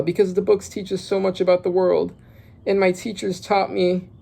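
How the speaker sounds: voiced girl line. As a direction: read it as the little girl speaking. Child Ronya's line, first read.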